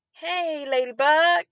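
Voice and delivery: mock the bright greeting that hides a bad day; fake chipper greeting. Upset cashier faking cheer to a regular customer, mock sing-song chipper. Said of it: "it was very unauthentic".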